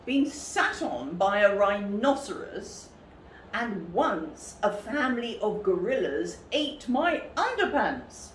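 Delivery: a touch of indignant telling-off; lightly voiced cross presenter. Presenter scolds the little cub, a little indignant. Angry wildlife presenter rant.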